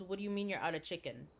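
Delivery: quick, restrained mock challenge; imitated instant disbelief. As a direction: fire it back fast but fairly low. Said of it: "my friend immediately, immediately".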